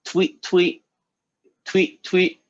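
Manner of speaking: high chirped tweets; bird imitation. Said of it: "and he goes".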